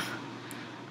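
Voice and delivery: soft teary laugh. Real, not acted. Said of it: "Sorry for getting all teary-eyed".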